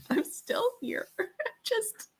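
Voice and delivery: high, soft, slow, giggling; a tired little laugh through it; quiet giggle at her own sleeplessness; laughing softly. Real, not acted. Laughing about insomnia.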